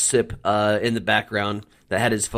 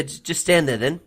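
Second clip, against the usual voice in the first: put-on Aussie accent; 5 semitones higher than usual. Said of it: "however he says it in that Aussie accent".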